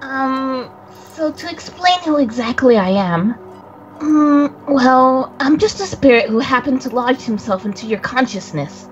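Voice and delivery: lightly voiced boy, hesitant explaining himself; a touch of a shy spirit introducing himself; young boy character. Friend voicing the spirit boy explaining himself, lightly hesitant. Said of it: "Coco, please, please take it away".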